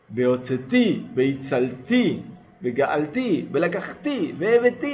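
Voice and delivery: Beotzeti and Beitzalti read slowly, syllable by syllable; slow recitation. Shown as a demonstration. Teacher reciting the redemption verbs. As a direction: recite the redemption words carefully. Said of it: "Leshonot de Geulah".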